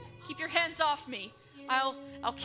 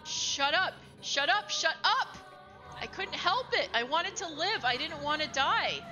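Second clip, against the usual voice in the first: high, loud, yelled denials; man screams at the mocking voice in his head; furious desperate shout; 6 semitones higher, 4 dB louder than usual. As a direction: scream to drown out the accusation. Quarrel with mocking inner voice.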